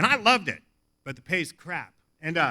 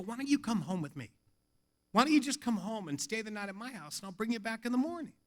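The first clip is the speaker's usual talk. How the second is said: soft, kindly offer; lowered volume, caring tone; gentle invitation; 7 dB quieter, faster than usual. Retold or imitated. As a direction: invite softly, reassuring a shaken friend. Gently offers troubled man a bed.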